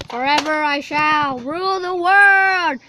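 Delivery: villain proclamation. Pretend. Villain cat proclaims its rule.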